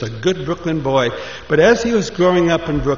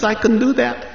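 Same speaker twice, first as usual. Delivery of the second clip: higher, cocky little voice; confident Moshe; 8 semitones higher than usual. Acted. Moshe assures the keeper, higher and cocky. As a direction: brush it off like it's easy.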